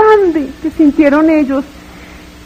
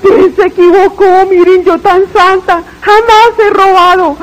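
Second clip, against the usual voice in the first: pleading yell, higher, with a sob breaking in; desperate yelling; 4 semitones higher than usual. Retold or imitated. In torment, pleading to be let out: desperate yell. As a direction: cry out that there has been a mistake. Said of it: "empiezo yo a gritar".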